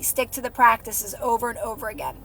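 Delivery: breathless after talking; winded, short on air; out of breath. Real, not acted. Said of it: "'cause I'm out of breath".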